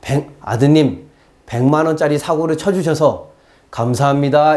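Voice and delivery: low, mock-grateful mother; ironically polite mother. Mother to son who caused a costly accident, ironically polite. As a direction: thank him with measured, over-polite irony. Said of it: "엄마가 이러죠".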